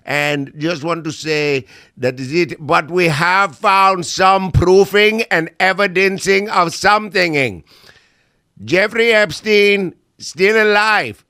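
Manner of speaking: lightly voiced official in broken stiff English. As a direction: play a bumbling official briefing the press. Kash Patel role, broken English.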